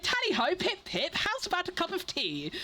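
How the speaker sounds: put-on high, over-the-top British toff accent; stereotypical British accent. Mocking Americans' take on Brits, in a stereotypical British accent. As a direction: ham up a cliché British accent, pitched high. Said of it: "like, really stereotypical accent".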